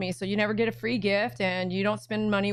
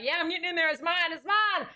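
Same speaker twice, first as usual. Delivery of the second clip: higher, eager dog voice claiming the bag; voicing the dog; 6 semitones higher than usual. Owner voicing her dog claiming the bag, eager and high. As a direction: play the dog grabbing its prize, rising. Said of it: "She already was like".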